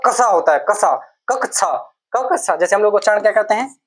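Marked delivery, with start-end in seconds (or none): 0.6-2.6 कक्षा said slowly as कसा, then कक्षा; correct pronunciation. Shown as a demonstration. Teacher showing students how to say कक्षा. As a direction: spell out कक्षा sound by sound, slowly. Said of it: "इसका ठीक उच्चारण क्या होता है".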